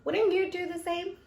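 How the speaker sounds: high, pleading ask to the viewers; wouldn't you, really?; pleading question. Real, not acted. Vlogger asking viewers for agreement, pleading. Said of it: "Tell me".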